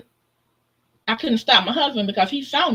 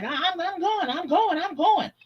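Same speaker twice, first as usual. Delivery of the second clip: scared stammer; 9 semitones higher than usual. Retold or imitated.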